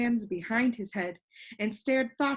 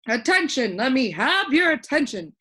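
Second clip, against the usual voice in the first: insistent call; 5 semitones higher, 7 dB louder than usual. A narrator's reading. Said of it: "insisted the king".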